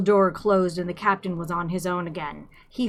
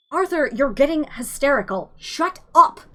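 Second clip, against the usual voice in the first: exasperated shout; 7 semitones higher, 3 dB louder than usual. A narrator's reading. Ford cutting off Arthur's rant.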